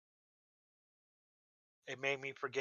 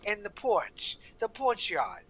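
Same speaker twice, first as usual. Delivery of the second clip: high, matter-of-fact local; local explaining; 9 semitones higher, 7 dB louder than usual. Retold or imitated. Maine local explains the porch yard, high and matter-of-fact. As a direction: explain it like it's obvious. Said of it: "He goes".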